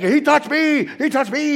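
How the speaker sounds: high loud whiny tattletale yell; tattling yell. Retold or imitated. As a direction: whine it like a kid telling on someone. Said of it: "And he's like".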